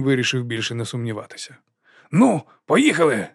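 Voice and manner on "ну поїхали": decisive. A narrator's reading. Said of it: "сказав він рішуче".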